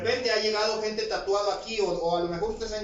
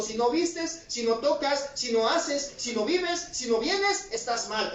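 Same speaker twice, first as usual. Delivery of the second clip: mock legalist; slower than usual.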